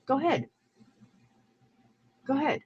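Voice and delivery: high, soft mocking go ahead; mother mocking the other streamer, high and soft; singsong taunt. Real, not acted. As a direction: tease her into saying it. Quarrel, repeated taunt.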